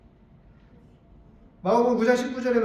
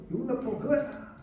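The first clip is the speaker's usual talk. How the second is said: angry command; 3 semitones higher, 4 dB quieter, faster than usual. Retold or imitated. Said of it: "막 이렇게, 이런 느낌이에요".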